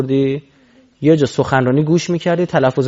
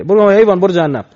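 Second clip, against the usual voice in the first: mock contemptuous dismissal; 3 semitones higher, 8 dB louder than usual. Mocking arrogant inner voice.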